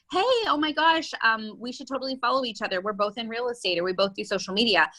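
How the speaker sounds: mock gushing. To agents she contacts, mock over-eager gushing. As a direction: parody a generic, overeager outreach message. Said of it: "I'm never just like".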